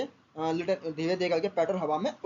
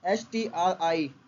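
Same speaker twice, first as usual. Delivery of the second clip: spelling out letters; slower than usual. Shown as a demonstration. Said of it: "इसमें एक word जुड़ गया है".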